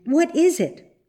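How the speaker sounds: high, distressed question; dismayed cry. A narrator's reading. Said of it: "cried Marjorie".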